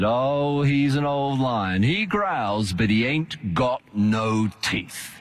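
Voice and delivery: a touch of easy, unbothered reassurance, slow; lightly voiced tamer, relaxed and amused; calm. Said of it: "very calmly smiled and said".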